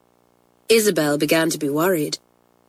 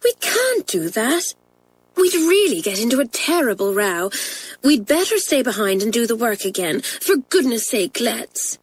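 higher, anxious schoolgirl plea; Isabel pleading; 4 semitones higher than usual. Acted. Isabel urging Pat to stay and work, pleading. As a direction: beg her sister to be sensible.

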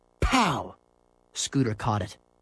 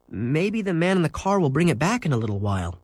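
hopefully; 4 semitones higher than usual. Acted. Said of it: "he said hopefully".

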